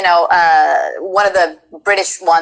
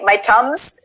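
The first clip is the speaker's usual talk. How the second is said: "tums" for thumbs, lightly Indian; Indian accent. Retold or imitated. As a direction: imitate an Indian friend, t for th in tums. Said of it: "my Indian friend, we, he would say".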